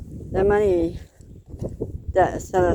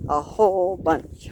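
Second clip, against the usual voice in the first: chewing gum. Real, not acted. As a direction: mouth full of gum. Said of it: "I'm chewing gum".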